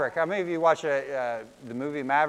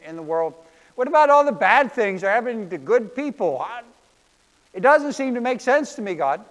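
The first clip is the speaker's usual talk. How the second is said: higher, louder exasperated questions; Bob questioning God; 5 semitones higher, 4 dB louder than usual. Acted. Cartoon Bob confronting God in the car, exasperated and pleading. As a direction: press God hard for answers. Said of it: "Bob turns to God and says".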